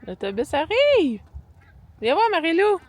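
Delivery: high, loud calling out; yelling across the room. Real, not acted. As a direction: call her from the window. Calling child to see bus. (en criant à travers la pièce)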